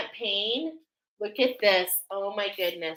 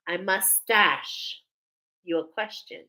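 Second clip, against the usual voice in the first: meme voice. Retold or imitated. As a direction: drag it out like the famous meme joke. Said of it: "like the meme".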